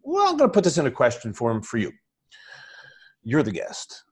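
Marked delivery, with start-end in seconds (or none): 3.2-4.0 quiet confiding whisper; whispered aside. Real, not acted. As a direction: whisper "You're the guest" as a quick aside. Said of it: "whispered aside".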